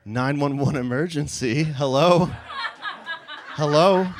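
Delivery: small voice of an emergency operator; tiny soft voice. Retold or imitated. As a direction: speak small and soft, like a distant call. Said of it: "a tiny little soft voice".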